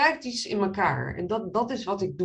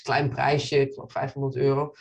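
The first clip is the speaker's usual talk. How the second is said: ordinary talk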